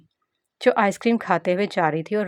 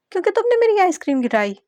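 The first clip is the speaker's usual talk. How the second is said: put-on pitched much higher, a child's crying complaint; whiny wail; 12 semitones higher, 5 dB louder, faster than usual. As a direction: wail it out to make a scene. Girl wailing loudly. (रोते हुए शिकायत करती बच्ची)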